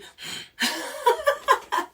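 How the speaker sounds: high loud cackling laugh; burst of laughter. Real, not acted. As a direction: break into helpless laughter. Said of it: "this having me crack up".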